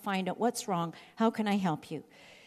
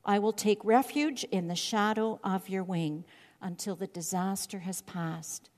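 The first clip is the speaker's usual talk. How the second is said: trusting prayer. Retold or imitated. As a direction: ease down into calm confidence. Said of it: "he begins to say".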